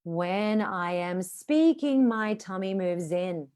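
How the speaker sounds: very slow, flowing breath; calm slow sentence. Shown as a demonstration. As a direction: stretch it out on the air. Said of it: "One more time".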